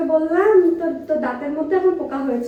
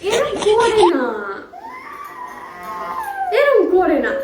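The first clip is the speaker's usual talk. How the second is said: mild scolding; 7 semitones higher, slower than usual. Real, not acted. Mother scolding child who hides again.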